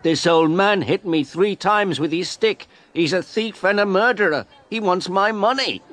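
indignant shout. A narrator's reading. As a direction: yell the accusation at the policeman. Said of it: "The photographer shouted to the policeman".

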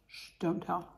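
soft secretive aside; hushed. Real, not acted. Telling viewers to keep a secret, hushed. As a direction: keep it hush, just between us.

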